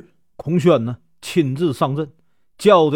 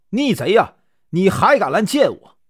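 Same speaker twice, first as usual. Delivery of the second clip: mild mock rage at a traitor; understated furious rebuke; angry scolding; 4 semitones higher than usual. General curses the defector facing him, mild anger. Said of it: "大骂道".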